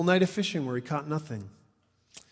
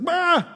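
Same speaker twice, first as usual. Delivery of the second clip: loud, high cry of shock; startled yelp; 13 semitones higher, 6 dB louder than usual. Retold or imitated. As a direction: blurt a startled "bah" for comic effect. Imitates disciples' startled reaction.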